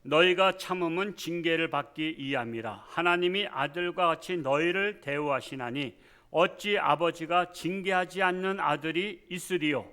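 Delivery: loud, measured Bible reading; scripture reading. Acted. Pastor reads Hebrews aloud to the congregation, loud and solemn. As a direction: proclaim the verses to the congregation.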